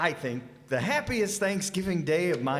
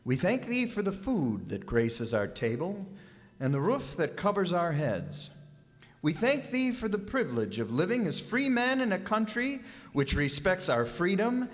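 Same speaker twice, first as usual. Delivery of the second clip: reverent, measured grace at the table; solemn Thanksgiving prayer. Acted. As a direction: say grace humbly for the family. Father says a special grace.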